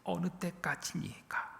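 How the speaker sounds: slow, soft sighing question; hushed, drawn-out plea; lament. Acted. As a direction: draw it out quietly as a lament. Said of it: "반복되는 탄식".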